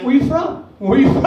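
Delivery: exaggerated tourist-friendly question; super expressive. Worker asking a foreign tourist's origin, super expressive. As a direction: ask it big, so a foreigner understands. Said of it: "you have to be, like, super expressive".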